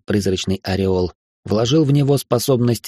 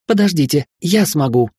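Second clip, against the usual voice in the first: fierce shout; 6 semitones higher than usual. Acted. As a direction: shout it defiantly. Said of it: "яростный крик Шелли".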